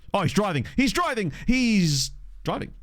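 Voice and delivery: rising anticipation as the player runs; building excitement. Real, not acted. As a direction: cheer the run on, stretching the last call. Live commentary on player's run.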